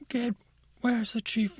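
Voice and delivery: high, loud sputtering outrage; sputter, then bellow for the chief; flustered Santa. Acted. Santa, sleigh won't launch, shouts for his chief angrily. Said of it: "Santa's like".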